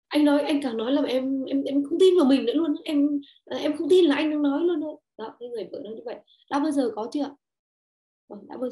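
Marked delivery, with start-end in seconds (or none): 0.1-5.0 exasperated wife. Retold or imitated. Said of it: "vợ ta nói cái câu là".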